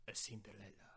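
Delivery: mock Spanish-accented Cinderella. Shown as a demonstration. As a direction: put on a light Spanish accent. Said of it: "I'm saying it with Spanish accent".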